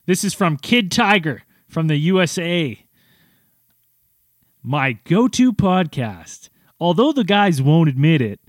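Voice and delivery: punchy, projected announcer read; old-timey radio announcer. Acted. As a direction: announce the review with stressed, stretched phrases. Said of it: "I'll do it in this one".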